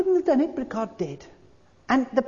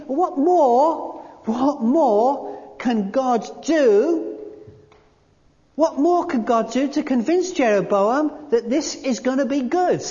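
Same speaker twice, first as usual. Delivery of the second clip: rising appeal; 4 semitones higher than usual. Real, not acted. Preacher appeals to the congregation over Jeroboam, rising and pleading. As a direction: build the plea for what more God could do.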